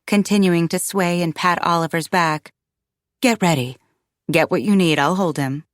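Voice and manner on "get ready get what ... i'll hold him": lightly voiced steady man; calm reassurance. Paul offering to hold the baby, calm. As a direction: take charge, unhurried and reassuring. Paul takes over, calming her.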